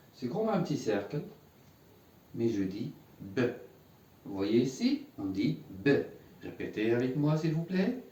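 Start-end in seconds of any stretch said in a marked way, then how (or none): 3.2-3.4 B with sukun, cut short with no full vowel; vowelless B. Shown as a demonstration. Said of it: "un manque de voyelles". 5.7-5.9 B with sukun, no full vowel after it; vowelless B. Shown as a demonstration. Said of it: "un manque de voyelles".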